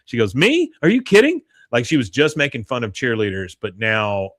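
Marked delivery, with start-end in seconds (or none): 0.4-1.4 squeaky high delighted disbelief; thrilled surprise. Retold or imitated. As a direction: jump way up in glee. Connie's thrilled reaction.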